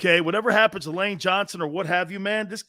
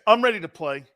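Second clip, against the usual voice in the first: lightly voiced back-and-forth, evasive answers; hint of a dodging quarterback; mock dialogue with Baker. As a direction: play both sides of a sheepish interview. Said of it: "Hold on, watch this".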